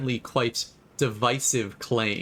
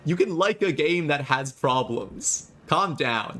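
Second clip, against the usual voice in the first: worked-up retort to critics; exasperated, emphatic rant; defiant comeback; 4 semitones higher than usual. Real, not acted. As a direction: argue back in a raised pitch. Heated comeback to angry commenters.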